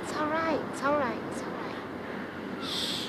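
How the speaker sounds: put-on calm a crying child; soothing. Comforting her found daughter.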